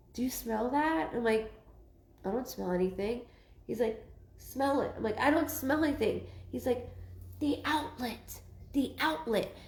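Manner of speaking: a hint of soft, hushed back-and-forth; hushed retold exchange. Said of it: "And he's like".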